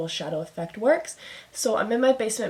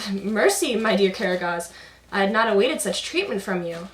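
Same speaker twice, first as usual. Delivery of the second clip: Hasavat voice; 4 dB louder than usual. Acted. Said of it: "he's talking to Karagos".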